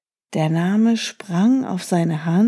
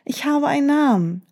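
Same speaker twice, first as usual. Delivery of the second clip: high, fast and thrilled; excited; 7 semitones higher, faster than usual. Acted. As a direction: blurt it out with joy. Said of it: "rief er".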